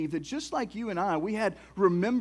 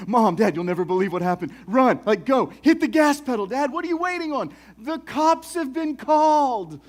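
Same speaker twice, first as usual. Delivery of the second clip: frantic, loud, higher and rushing; panicked kids; 5 semitones higher, 9 dB louder than usual. Retold or imitated. Boy shouting to his parents in the getaway car, frantic. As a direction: yell at Dad to floor it.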